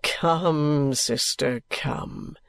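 low male voice, lightly coaxing; a little gayer. A narrator's reading. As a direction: coax gently in a low voice. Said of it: "said Richard a little more gaily".

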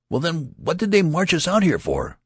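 high, loud, indignant demand. Acted. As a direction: throw the question at him hard. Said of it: "he demanded of the tall soldier".

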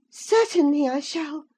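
put-on high, firm young lady refusing; insist, voice pitched high; defiant young woman. Isabella insists.

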